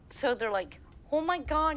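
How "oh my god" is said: high mock astonishment; amazed fans. Fans find out they were fooled, high astonished imitation. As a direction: pitch up an imitated gasped exclamation. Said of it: "they were totally fooled".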